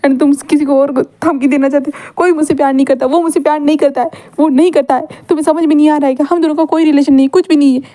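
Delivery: mild acted crying; loud crying. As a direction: sob out the complaint, half-hearted. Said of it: "विंग ज़ोर-ज़ोर से रो रहा था".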